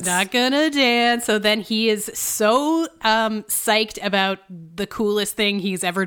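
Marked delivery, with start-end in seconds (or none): 0.0-1.2 in unison. Pretend. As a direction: chant it as a tired running joke. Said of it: "let's all say it together".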